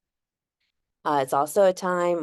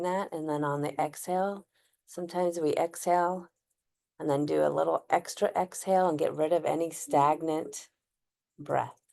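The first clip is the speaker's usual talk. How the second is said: unhurried, gently guided breathwork, long pauses; guided breathing meditation. Acted. Host guiding listeners to inhale, hold and exhale, calm meditation voice.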